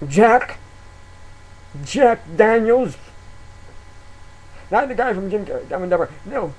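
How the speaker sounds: hammed-up sleazy promoter; sleazy fake producer. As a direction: lure them in like a shady producer. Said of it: "dress up in a suit".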